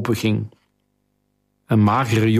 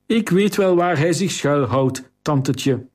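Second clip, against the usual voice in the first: put-on cheeky boy; 4 semitones higher than usual. Cheeky boy teases the queen.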